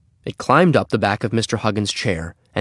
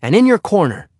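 put-on a much higher, louder boy's voice giving orders; boy ordering the dog; 10 semitones higher, 6 dB louder than usual. A narrator's reading. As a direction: send the dog back firmly, high and loud. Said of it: "said Henry".

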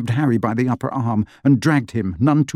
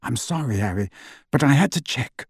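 terse; 3 dB quieter than usual. A narrator's reading. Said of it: "said Lupin tersely".

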